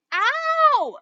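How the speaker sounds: high loud yelp of pain; yelling. A narrator's reading. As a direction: yell out from the sting. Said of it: "Patrick kept yelling".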